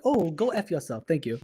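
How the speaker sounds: a lightly put-on, badly done British accent; mock-polite British accent; a hint of a prim British accent, barely shifted. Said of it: "that was my worst British accent".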